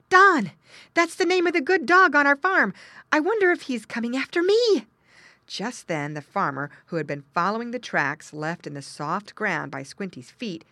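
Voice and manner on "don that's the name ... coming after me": high, loud, excited piglet voice; little pig. A narrator's reading. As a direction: wonder aloud as a startled little pig. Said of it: "thought Squinty".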